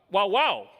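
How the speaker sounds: two loud barked syllables; Peruvian dog bark. Shown as a demonstration. Speaker showing how dogs sound in Peru, barking. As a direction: bark it as a word, twice. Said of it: "the dog in Peru says".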